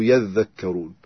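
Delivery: يذكرون as "yadh-dhakkaroon"; doubled dhal. Shown as a demonstration. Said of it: "يشدد الذال".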